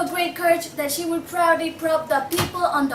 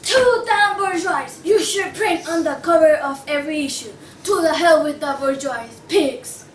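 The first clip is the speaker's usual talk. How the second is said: anarchist rant. Acted. Anarchist rails against bourgeois readers, scornful outburst. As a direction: spit it out like a manifesto.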